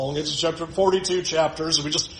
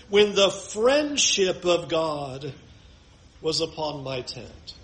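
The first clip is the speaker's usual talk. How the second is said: solemn scripture reading; slower than usual. Acted. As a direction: read it like a longing memory, slowly. Reads Job 29 aloud.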